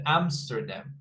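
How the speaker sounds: Amsterdam with the stress on AM; Amsterdam, front syllable stressed for learners; first-syllable stress. Shown as a demonstration. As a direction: say AM-ster-dam, leaning on the first syllable. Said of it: "the stress in the first one".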